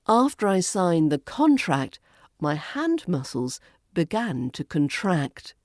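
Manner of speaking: first "contract" as CONtract, last as conTRACT; contrasting word stress. Shown as a demonstration. Teacher modelling a practice line, contrasting CONtract and conTRACT. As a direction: stress CON in the noun contract, TRACT in the verb contract. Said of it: "Let's practice with this line".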